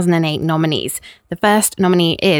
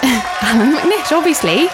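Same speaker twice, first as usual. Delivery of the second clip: laughing through the words, pitched up; amused, as if it were self-evident; laughing reply; 6 semitones higher, slower than usual. Real, not acted. Presenter answering the baffled co-host, laughing.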